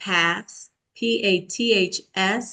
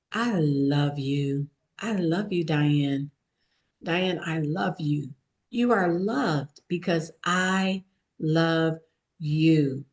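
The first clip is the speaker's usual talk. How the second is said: tender self-affirmation; 3 semitones lower than usual. Shown as a demonstration. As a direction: say it gently, as a promise to yourself. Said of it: "to say to themselves five times when they wake up".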